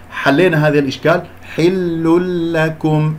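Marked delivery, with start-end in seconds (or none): 1.5-3.1 حل لكم chanted very slowly as "hillul-lakum"; merged tanween. Shown as a demonstration. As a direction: melt the N into a doubled L in حل لكم. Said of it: "أكلنا النون". (ترتيل «حل لكم» بإدغام بلا غنة)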